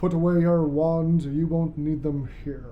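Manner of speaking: a lightly voiced, dry Snape; deadpan teacher, barely put on; terrible Snape voice. Snape telling the girls to put wands away, dry. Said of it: "My terrible, terrible Snape accent".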